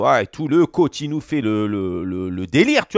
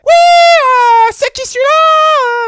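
très haut et fort, Messi énervé; voix aiguë de Messi; 9 dB louder, much slower than usual. Retold or imitated. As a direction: imiter Messi furieux d'une voix suraiguë. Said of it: "Parce qu'il a une voix un peu aiguë". (Messi vénère, voix perchée et criée)

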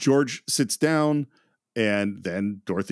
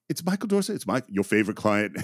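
imitating a lightly pleading up-and-down voice; voice going up and down; 2 semitones lower than usual. Retelling an actor introducing himself to his agent, voice going up and down. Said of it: "the voice going up and down".

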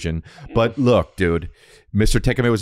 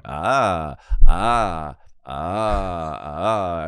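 imitated teacher's "ah"; 4 semitones lower, much slower than usual. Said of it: "and he was going".

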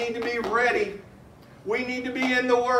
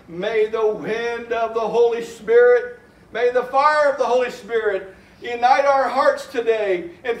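fervent hymn prayer. Acted. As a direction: pray the hymn with rising fervour. Recites hymn, swelling into prayer.

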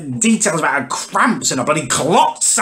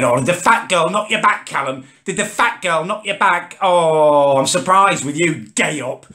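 mocking taunt; 4 semitones higher than usual. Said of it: "Trev starts piping up again".

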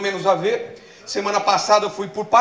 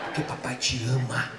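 tender dad; 7 semitones lower, 8 dB quieter than usual. Retold or imitated.

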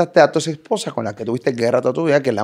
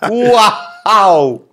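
astonished wow; 7 semitones higher, 6 dB louder than usual. Real, not acted. Host reacts to tense scene.

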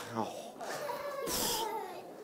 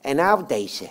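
puppet voice; 3 semitones higher, 4 dB louder than usual. Acted. Puppet Jan Klaassen voice.

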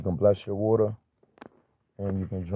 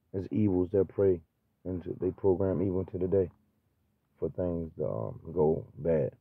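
halting, stumbling over words; stuttering. Real, not acted. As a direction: catch on the words, restart them. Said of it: "forgive me for stuttering".

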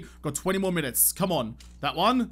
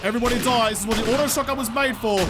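battle cry; 3 dB louder, faster than usual. Real, not acted. Streamer mowing down zombies, loud battle taunt. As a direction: taunt the zombies, gun blazing. Shotgun fight against zombies.

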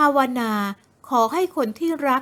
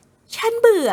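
higher, slow, sulky whine; sulky young woman; 8 semitones higher, slower than usual.

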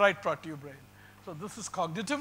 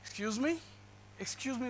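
sarcastic; 4 semitones higher, 6 dB quieter than usual. Retold or imitated. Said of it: "is a sarcastic way to say".

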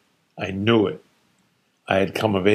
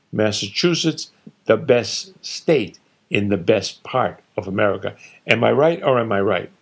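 feeling strong; 3 semitones higher than usual. Acted. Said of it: "He was feeling strong".

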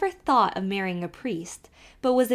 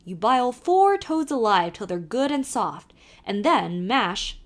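put-on lively Irish accent, calling to the horse; old Irish driver calling out; Irish carter; 2 semitones higher, 5 dB louder than usual. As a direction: urge the nag on in a brogue. Kelly gives the recipe.

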